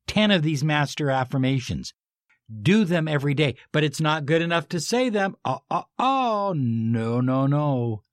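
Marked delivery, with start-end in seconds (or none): 5.5-8.0 playful correction. Acted. Mock correcting listeners.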